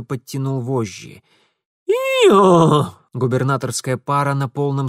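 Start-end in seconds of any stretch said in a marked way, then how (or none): 1.9-3.0 urging horses. A narrator's reading.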